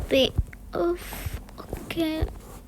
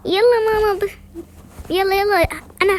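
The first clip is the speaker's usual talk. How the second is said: calling out; 5 semitones higher, 5 dB louder than usual. Real, not acted. Child calling her mum.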